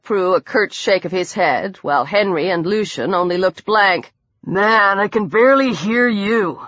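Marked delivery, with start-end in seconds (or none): 4.4-6.6 muffled, speaking through a snorkel. Acted. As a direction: talk through a covered mouth. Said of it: "Aiden said from the depths of his snorkel".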